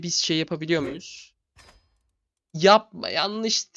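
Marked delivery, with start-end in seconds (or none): 2.5-3.7 loud, high cry of alarm at a wrong click; alarmed shout. Real, not acted. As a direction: shout to stop the mistake. Misclick in game.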